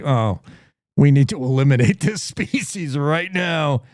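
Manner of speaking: cold robot verdict. Retold or imitated. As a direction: say it like a machine deciding. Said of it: "robots would take one look at Jersey and say".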